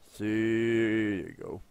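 usual speaking voice

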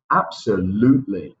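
Absolutely with a long stretched "oo" vowel; long vowel sound. Shown as a demonstration. Teacher drilling Absolutely, long vowel held clearly. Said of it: "Dense cuenta del long vowel sound".

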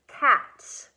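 loud punched word catch. Shown as a demonstration. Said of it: "punch straight up in the air".

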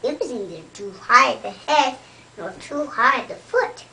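bright, loud storybook excitement; excited. Acted. Reading to a child, building up the excitement. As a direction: read it loud and thrilled. Baby bear's bed just right.

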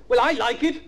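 high, hopeful little voice. A narrator's reading. Florence defending the story, high and hopeful. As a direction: pipe up hopefully.

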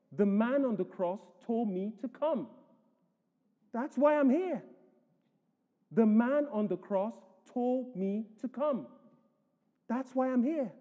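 lightly voiced humble thief, earnest; a hint of a plain man insisting; simple thief. Thief's answer retold in sermon.

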